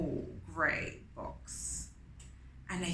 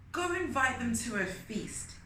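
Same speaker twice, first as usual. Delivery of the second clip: Anansi instructing; 5 semitones higher than usual. Acted. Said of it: "Anansi said".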